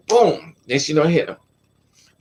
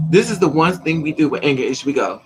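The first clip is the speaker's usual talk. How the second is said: normal talking voice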